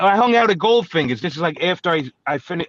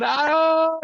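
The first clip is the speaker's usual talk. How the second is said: high imitated scream; drawn-out high "ah" yelp; mock scream; 12 semitones higher than usual. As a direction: mimic a man screaming in pain. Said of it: "He's screaming".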